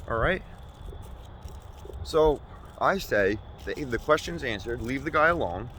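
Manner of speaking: mock-outraged defense of the guy; heated rant. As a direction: build into a shouting defense. Escalating comic rant.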